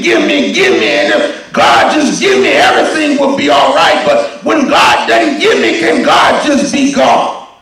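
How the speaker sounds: full-voiced preacher cry; preaching. Preacher crying out to the church, full force. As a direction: preach it out to the congregation.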